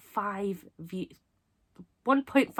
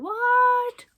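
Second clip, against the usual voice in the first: imitated viewers' shock; 14 semitones higher, 6 dB louder than usual. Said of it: "I know you're probably all wondering".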